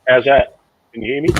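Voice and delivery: muffled, as if through a cardboard tube; tinny tube-muffled mic sound; through a toilet roll tube. Real, not acted. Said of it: "you're talking through a toilet roll tube".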